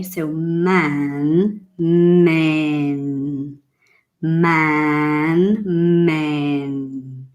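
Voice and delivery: "man" wide open a, "men" short e; man versus men. Shown as a demonstration. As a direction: contrast "man" and "men" clearly. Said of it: "The difference between man and men".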